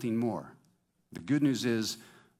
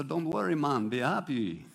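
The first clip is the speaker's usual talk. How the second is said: put-on Jamaican accent; 4 semitones higher than usual. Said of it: "Jamaican accent".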